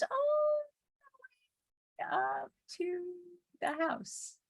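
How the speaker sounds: a playful conspiratorial whisper, breathless and hushed; mock whisper. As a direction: whisper it like a naughty secret. Sneaky mowing told as secret.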